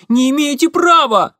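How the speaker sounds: high, thin, loud yelp; thin-voiced cry. The boy protesting to Igor, high thin yelp. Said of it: "тонким голосом вскрикнул мальчишка".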